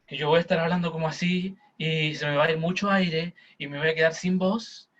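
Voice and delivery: demonstrating speech pushed from the chest. Shown as a demonstration. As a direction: speak from the chest, spending lots of air. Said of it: "ahora voy a hablar como del pecho".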